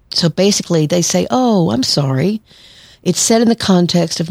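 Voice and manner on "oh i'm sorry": higher, slow, sugary fake apology; sweetly mock an apology you don't mean; passive-aggressive sorry. Therapist imitating passive-aggressive folks, slow fake-sweet apology. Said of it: "These are passive-aggressive folks".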